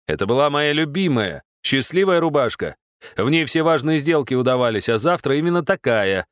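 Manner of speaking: выше и громче, с наигранным отчаянием; громко сокрушается о рубашке; воскликнул. Acted. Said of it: "воскликнул он". (Влад восклицает, изображая горе по рубашке)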